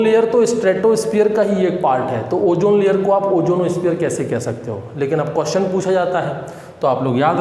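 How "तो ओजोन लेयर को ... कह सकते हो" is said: ordinary talk, nothing marked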